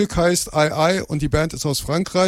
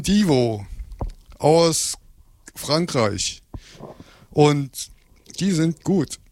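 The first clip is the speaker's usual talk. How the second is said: talking while chewing gum; words round a wad of gum; slower than usual. Real, not acted. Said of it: "Ich hab einen Kaugummi im Mund".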